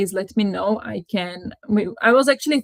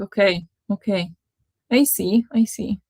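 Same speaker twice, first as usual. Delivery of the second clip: saying everything twice; repeating words. Real, not acted. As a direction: double up every phrase. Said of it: "why do I say everything twice?".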